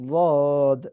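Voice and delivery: slow, thick "ওয়াদ" with the tongue side touching; Arabic letter dad. Shown as a demonstration. Teacher modelling dad for the class. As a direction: sound out "ওয়াদ" heavily. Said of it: "করে উচ্চারণ হবে".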